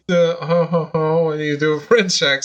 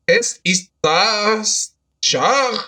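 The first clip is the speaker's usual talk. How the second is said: slow, higher dramatic reading; dramatic trailer voice; 3 semitones higher, much slower than usual. Pretend. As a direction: intone it like a doom trailer. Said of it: "You don't have to do that with your voice".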